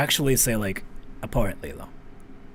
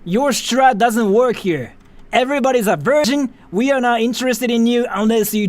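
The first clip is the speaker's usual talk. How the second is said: mock rant; 5 semitones higher, 4 dB louder than usual. Mock rant at spam bot.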